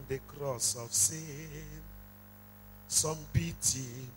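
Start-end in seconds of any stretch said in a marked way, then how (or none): 2.9-4.1 slow, deliberate list of each blow; slow solemn list. Acted. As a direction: weigh each blow with a pause.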